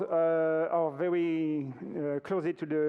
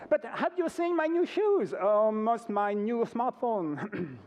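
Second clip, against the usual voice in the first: mock bragging consumer; 5 semitones higher, slower than usual. Speaker mocks consumers who call organic too expensive, in a high boastful voice. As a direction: play a vain shopper boasting about new things.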